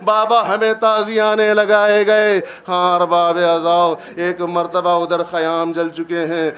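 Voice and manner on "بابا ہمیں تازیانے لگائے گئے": lamenting. Acted. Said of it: "بین کرنا شروع کر دیا".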